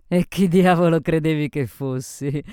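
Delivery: loud, brash comeback; tipsy woman's rowdy challenge; drunken retort. A narrator's reading. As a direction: throw it back at her loudly. Drunk Sophie retorts to Isabel.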